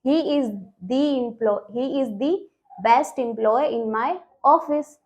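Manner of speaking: slow model sentence, each "the" said "dee"; long ee in "the" before "employ-" and "best". Shown as a demonstration. Teacher modelling the sentence for students, "the" as "dee". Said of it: "ऐसे बोलेंगे".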